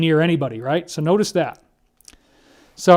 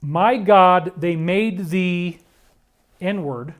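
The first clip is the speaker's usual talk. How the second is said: retold crying; much slower than usual. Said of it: "and cried".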